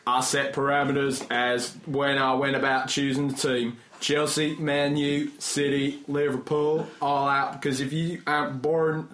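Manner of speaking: mock Texan email reading; terrible Southern accent. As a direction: put on a bad American South accent. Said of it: "my terrible, terrible Southern accent".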